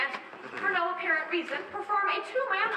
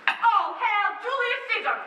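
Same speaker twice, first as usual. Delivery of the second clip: hailing; 4 semitones higher, 4 dB louder, slower than usual. Acted. Crowd hailing Caesar.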